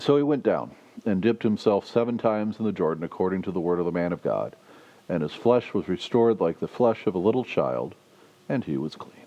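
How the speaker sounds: reads the Bible passage aloud to the congregation; measured, lightly lifted reading voice; scripture reading. Acted. Preacher reading the passage aloud to the congregation.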